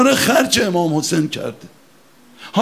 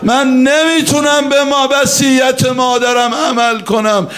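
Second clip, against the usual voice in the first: crying out in grief; 5 semitones higher than usual. Acted. Voicing Abbas's anguished lament.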